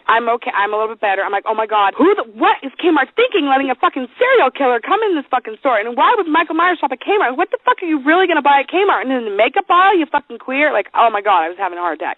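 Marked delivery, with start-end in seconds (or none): 1.4-10.7 indignant, rattled rant with jumping pitch; mock-outraged ranting; retold freak-out. Ranting to husband about Kmart, mildly outraged.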